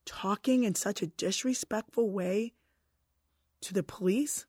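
slow, soft, disapproving judge; slow measured scolding from the bench; stern judge. Retold or imitated. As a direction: draw it out like a judge scolding a teen. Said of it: "And he was like".

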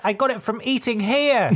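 mock parting shot. Quitting worker jokes to the restaurant, whiny. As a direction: fake sick worker blaming the food. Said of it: "you say as you leave".

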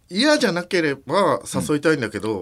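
nervous trembling voice; shaky voice. Real, not acted. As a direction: voice shaking with nerves. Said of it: "声震えてるね".

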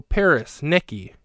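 put-on a doorman calling out after two girls, lightly done; calling out names. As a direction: shout the names after someone running off. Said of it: "you hear him go".

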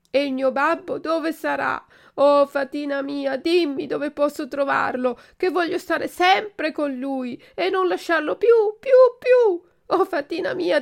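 high, loud tearful wailing lament; a puppet sobbing his heart out; crying lament. Acted. Puppet weeping over the fairy's grave, high wailing cry. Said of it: "E piangendo diceva".

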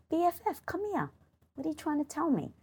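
high, soft and quick, like calling a friend close; coaxing. Pretend. Calling her inner critic over, soft and high. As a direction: coax the inner voice over kindly.

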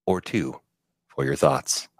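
a hint of a fight announcer. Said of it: "it was my announcer voice".

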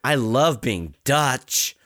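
slow, drawn-out mock Dutch accent; put-on Dutch accent. Podcaster posing as someone from Amsterdam, put-on Dutch accent. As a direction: greet listeners in a slow, badly faked Dutch accent. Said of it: "I can't do a Dutch accent".

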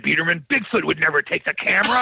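mock outraged shout; indignant disbelief. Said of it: "in disbelief and says".

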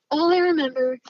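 breathy, tearful whisper. Retold or imitated. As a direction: whisper it through tears. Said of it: "He's crying".

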